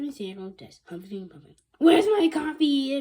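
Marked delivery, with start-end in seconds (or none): 1.8-3.0 loud, slow shout. Acted. Principal demanding coffee, loud slow shout. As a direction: bellow it slowly. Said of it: "he shouted".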